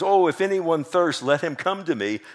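preacher crying out Jesus's invitation. Acted. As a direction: call out to the crowd as Jesus. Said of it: "Jesus cries out".

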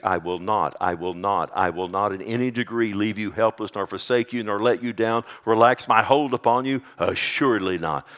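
repeated "not" hit hard; emphatic. Shown as a demonstration. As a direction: hammer each "I will not". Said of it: "It's emphatic in the Greek".

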